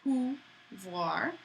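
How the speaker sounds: Pouvoir ending in a clear wa; French pronunciation. Shown as a demonstration. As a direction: model Pouvoir for the class. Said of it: "Get that wa at the end".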